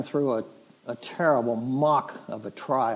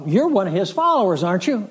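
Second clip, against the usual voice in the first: higher, louder, quick accusing question; servant girl's challenge; 5 semitones higher, 4 dB louder, faster than usual. Retold or imitated. Servant girl recognizes Peter by the fire, accusing. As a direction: put it to him as a pointed accusation.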